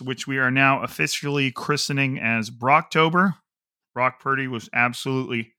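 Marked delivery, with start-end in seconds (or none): 3.9-5.5 talking with something in the mouth; words round something caught in the mouth; mouth full. Real, not acted. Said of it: "I had something caught in my mouth".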